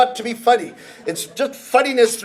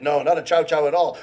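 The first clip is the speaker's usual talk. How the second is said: denying voice; 7 semitones lower, 4 dB quieter than usual. Acted. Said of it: "a conversation like this".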